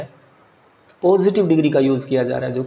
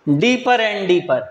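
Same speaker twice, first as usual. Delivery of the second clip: slow correction; much slower than usual. Shown as a demonstration. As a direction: give the fixed phrase slowly. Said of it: "गहरी और गहरी".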